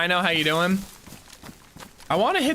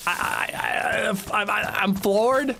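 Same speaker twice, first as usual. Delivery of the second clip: surprised; 4 semitones higher, slower than usual. Real, not acted. Stunned by a big gift.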